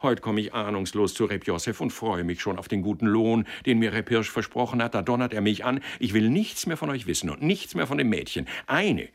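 animated, indignant retelling with mild bluster; lively, worked-up complaint; aggrieved matchmaker. Acted. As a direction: recount the insult in rising exasperation.

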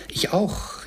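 high chiming-in call, rising sharply. A narrator's reading. Another child joining Peter, calling out high. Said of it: "rief ein anderer".

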